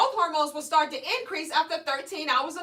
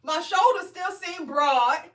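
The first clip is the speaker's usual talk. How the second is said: slow doubtful; 2 semitones higher, much slower than usual. Retold or imitated. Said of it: "I'm like".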